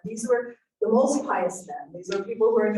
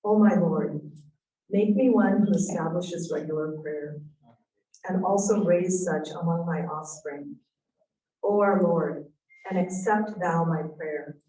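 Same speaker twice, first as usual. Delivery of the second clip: earnest recitation of a prayer, a bit louder; prayer reading; 3 dB louder than usual. Acted. Closing the talk by reading a Quran dua, solemn. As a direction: read the dua solemnly to close.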